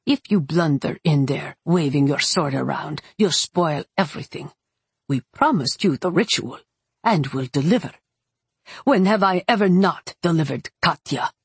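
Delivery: lightly voiced stern elder witch; scolding elder witch. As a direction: chide her firmly, with restrained reproach. Voices Yevdokia scolding Katya.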